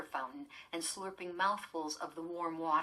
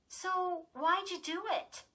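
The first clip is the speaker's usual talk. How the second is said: demanding sister; 12 semitones higher, slower than usual. Acted. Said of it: "Lindy demanded".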